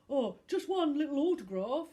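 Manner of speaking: loud wheedling thug; a hint of a thug pleading for an autograph. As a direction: beg shamelessly. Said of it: "pleaded Nigel".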